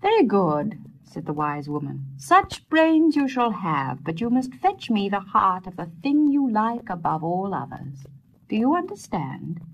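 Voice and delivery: lightly voiced old wise woman, commanding; a hint of an old crone setting a task. Wise woman giving Peter his task, lightly voiced.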